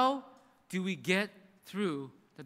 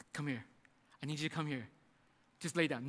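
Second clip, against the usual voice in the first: low and much softer, gently urging; soft coaxing father; 4 semitones lower, 7 dB quieter, faster than usual. Retold or imitated. Abraham quietly coaxing Isaac to lie down: soft, low urging. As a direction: hush him down like a grieving father.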